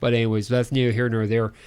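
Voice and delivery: put-on Midwestern announcer; Midwestern accent. Co-host announces projects in a put-on Midwestern accent. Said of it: "a decent Midwestern accent".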